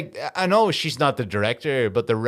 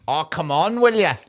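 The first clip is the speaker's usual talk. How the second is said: bad film Irish; 4 semitones higher than usual. Mocking actor's most Irish line, badly done Irish accent. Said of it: "but he did it so badly".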